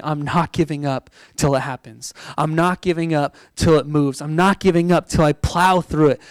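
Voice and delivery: steady, resolute vow to keep going; determined. Shown as a demonstration. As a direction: declare it like nothing will stop you.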